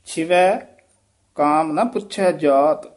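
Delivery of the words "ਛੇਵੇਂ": ਛੇਵੇਂ as chhiven, short i. Shown as a demonstration. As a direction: say ਛੇਵੇਂ with sihari, quick. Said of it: "ਛੇਵੇਂ ਛੇਤੀ ਬੋਲਣਾ ਹੈ".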